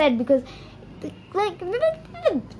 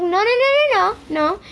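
rapid-fire higher-pitched refusal; retold protest, pitch jumping up; urgent objection; 7 semitones higher than usual. Retold panicked refusal to friend.

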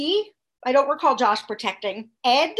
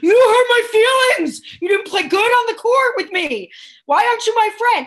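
put-on high, loud whining like a crying toddler; mock a five-year-old's tantrum; whiny giant baby; 10 semitones higher, 7 dB louder than usual. Mocking Josh as a big baby, high whining cry. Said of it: "is like".

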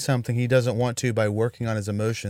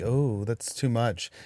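prissy disapproval; 3 semitones lower, 7 dB quieter, slower than usual. Pretend. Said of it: "He's like".

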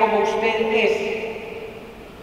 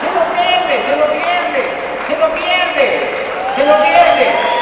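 louder and higher, ending in a slow shout; building shout; 8 semitones higher, 7 dB louder, slower than usual. Acted. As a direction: hammer it home louder each time. Emphatic repeated punchline.

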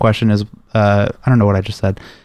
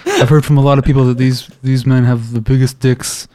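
a hint of a boastful president, slowing down; Donald Trump. Joking to friends about video games, light Trump impression. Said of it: "That's my Trump impression".

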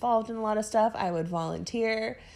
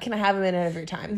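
quick, firm, confident request; direct ask; faster than usual. Retold or imitated. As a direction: ask straight out, no hedging. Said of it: "Just ask the question and do it".

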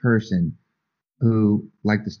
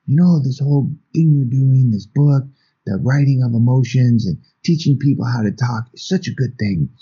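put-on earnest elderly dad; 4 semitones higher than usual. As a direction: press it on him like a heartfelt plea. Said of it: "pulls me aside and he says".

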